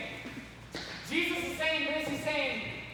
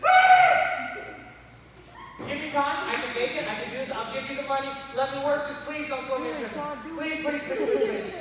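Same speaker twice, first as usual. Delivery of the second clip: desperate pleading servant on his knees, one cry of please far louder; begging; 3 dB louder than usual. Retold or imitated. Servant on his knees begging the king for time. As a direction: beg for your life, then laugh it off. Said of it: "he's like".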